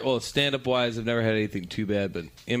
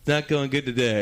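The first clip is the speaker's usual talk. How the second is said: much higher, strained cheer; nervous host; 7 semitones higher than usual. Retold or imitated. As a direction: push past the awkwardness brightly. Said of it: "he goes".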